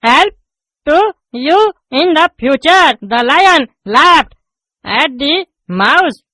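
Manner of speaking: drags out each English word; slow halting reading. Acted. Pupil reading aloud to the teacher, very slow. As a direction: reads word by word like a struggling pupil.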